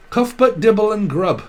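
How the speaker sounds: cuff butt called out high and loud. Acted. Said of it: "I'm hearing".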